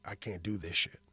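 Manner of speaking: hushed, breathy whisper of giving up; whispered quote. Retold or imitated. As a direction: whisper it like a secret decision. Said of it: "where you were like".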